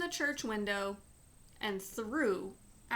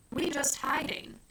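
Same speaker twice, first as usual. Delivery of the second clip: smiling; 6 semitones higher, 3 dB louder than usual. A narrator's reading. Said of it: "he said, smiling".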